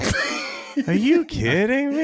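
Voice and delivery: high, laughing cry of disbelief. Real, not acted. Friend reacting to a ridiculous sock review, laughing disbelief. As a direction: burst out laughing in shock.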